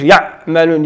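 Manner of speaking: يعملون with the ayn barely touched; ayn too short. Shown as a demonstration. Teacher showing the opposite mistake, ayn cut short in يعملون. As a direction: skip quickly off the ع in يعملون as a wrong example. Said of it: "وما يمكنش".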